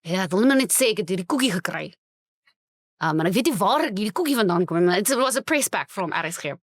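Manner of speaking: lightly voiced Afrikaans uncle; broad South African accent. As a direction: read the voice note as an old Afrikaans oom. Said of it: "imagine him ... voice note of him".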